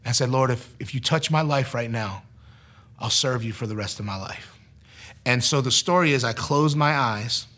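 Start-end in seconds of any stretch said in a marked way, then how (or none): 0.3-4.6 subdued, lower retold plea; quietly surrender to God in prayer; tearful prayer. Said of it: "I started to cry".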